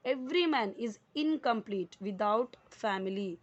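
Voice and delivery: very slow, word by word, each word laid out clearly; slow, careful classroom read-aloud; slow dictation reading. Shown as a demonstration. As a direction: read it out slowly for students to follow. Teacher reading sentence for class.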